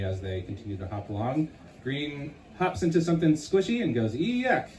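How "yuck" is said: disgusted yuck. Acted. Green steps into something squishy.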